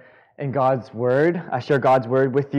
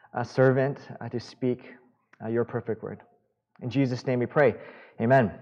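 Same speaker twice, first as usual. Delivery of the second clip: prayer. Acted. Opening prayer before sermon.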